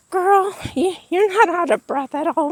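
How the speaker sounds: put-on high, excited girlfriend talk; excited gushing. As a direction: gush at her like a fan. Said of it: "I was like".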